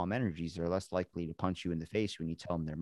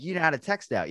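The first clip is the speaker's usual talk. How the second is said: amazed question; 8 semitones higher, 5 dB louder than usual. Retold or imitated. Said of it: "I'm like".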